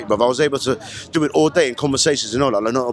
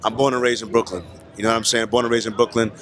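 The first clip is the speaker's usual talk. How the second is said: drops the London accent, lower; own American accent; 6 semitones lower than usual. Real, not acted. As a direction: reveal the real Brooklyn voice. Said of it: "doing the accent".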